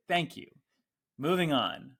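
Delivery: clipped, done with it; brisk satisfied customer. Retold or imitated. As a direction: customer briskly moving past it.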